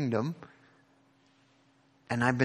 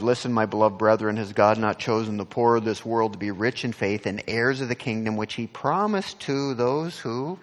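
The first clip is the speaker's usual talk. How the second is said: louder and faster, driving through the verse; loud fast rereading; 4 dB louder than usual. Shown as a demonstration. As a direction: rush the verse out loud like a proclamation. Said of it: "So again in verse five".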